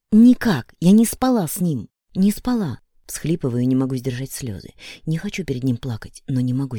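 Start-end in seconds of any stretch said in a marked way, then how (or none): 0.1-2.8 louder and higher, stress on «не»; desperate shout. A narrator's reading. Woman screams her innocence at Денис, struggling. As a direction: scream that you didn't sleep with him.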